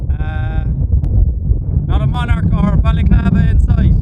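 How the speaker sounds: high, loud Northern Ireland accent put on for the camera; a hillwalker greeting the camera in a hammed-up Northern Ireland accent. Hammed-up Northern Ireland accent. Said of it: "in a Northern Ireland accent".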